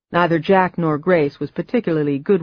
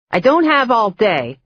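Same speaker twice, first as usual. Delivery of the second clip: put-on high, louder cackling old aunt; impatient old woman; 6 semitones higher, 3 dB louder than usual. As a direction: hurry them along like a gruff old witch. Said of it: "she said".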